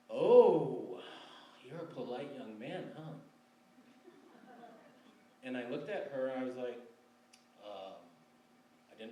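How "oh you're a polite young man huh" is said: "Oh" bursts out loud, then a light teasing tone; mock her amused condescension; teasing girl. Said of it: "And she said".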